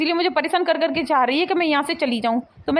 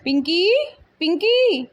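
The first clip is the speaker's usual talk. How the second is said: calling to wake someone; 5 semitones higher, slower than usual. Acted. Mother-in-law waking sleeping bahu.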